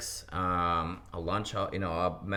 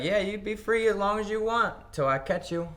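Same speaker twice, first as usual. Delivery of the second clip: mock PO threat; 12 semitones higher, 3 dB louder than usual. Mocking PO's threat.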